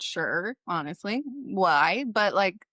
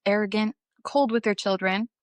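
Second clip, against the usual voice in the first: normal talking voice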